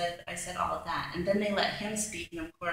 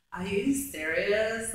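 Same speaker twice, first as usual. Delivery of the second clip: slow, drawn-out disbelief; retold incredulity; 3 semitones higher, 4 dB louder, slower than usual. Woman reacting to his courtroom tears, incredulous. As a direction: stretch out the question, mildly appalled.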